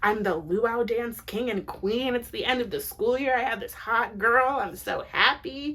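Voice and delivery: imitating Craig bubbling over with glee; mock-thrilled schoolboy gushing; excited. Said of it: "Craig is really excited".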